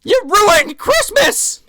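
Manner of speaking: high, loud mock-furious cry; drawn-out comic Santa yell; pissed-off Santa. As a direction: stretch out the accusation in hammed-up outrage. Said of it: "Santa is fucking pissed".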